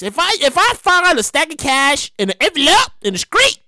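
put-on playful country accent. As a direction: lean into a country pronunciation. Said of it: "I'm using my little country voice".

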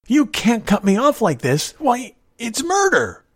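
high, loud protest; desperate. A narrator's reading. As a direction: cry out against the injustice, drawing out the end. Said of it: "George said desperately".

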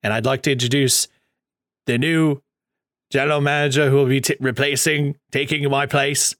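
lightly put-on posh British announcer; a hint of posh accent, building to the name; Regal's posh accent. Imitating Regal introducing his replacement, mock posh accent. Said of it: "Regal has more of a posh accent".

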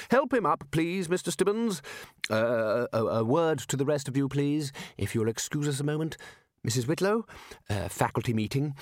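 lightly voiced leader calling orders; Ridcully, taking charge. Ridcully calls the wizards to a faculty meeting, taking charge. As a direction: start high, then tactfully hesitant.

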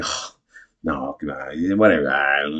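bashful mock brush-off; downplaying a compliment. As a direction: wave the praise away under your breath. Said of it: "we'll downplay that".

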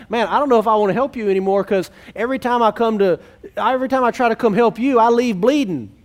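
exasperated helper. Retold or imitated. Helper fed up with someone who fights correction, exasperated and fast. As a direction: blurt it out like you've had enough. Frustrated helper venting at resister.

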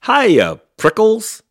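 high, very loud teasing greeting; shouted. A narrator's reading. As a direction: shout hello in passing, way up high. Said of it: "she shouted".

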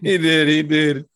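loud, insistent agreement; emphatic. Real, not acted. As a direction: backs him up firmly. Confirming loudly, backing up Leo.

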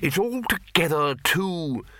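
put-on high, slow, firm old wizard; deliberate, emphatic wizard's voice; firm Arch-Chancellor. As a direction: lay it down firmly as the master. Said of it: "said the Arch-Chancellor firmly".

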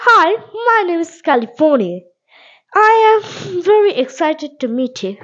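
sample greeting. Shown as a demonstration.

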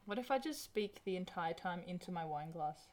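muffled into a wine glass; talking into a glass. Real, not acted. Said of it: "you sound a bit weird".

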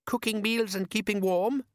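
hopeful. Acted. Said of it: "said Les hopefully".

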